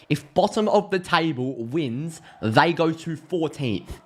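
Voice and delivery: slow, deliberate amazement at the table; slow emphatic repeat. Real, not acted. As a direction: spell it out slowly for emphasis.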